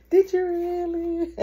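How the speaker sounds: high, drawn-out mock-doubting question; slow, high-pitched teasing challenge. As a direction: stretch it out high in playful disbelief. Mocking doubt at prayer promise.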